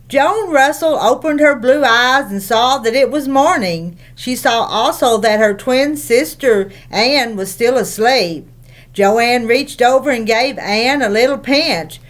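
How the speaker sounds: steady storybook reading voice; story narration. A narrator's reading. Reading the chapter aloud to young listeners, storybook voice. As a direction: read it out to the children, evenly.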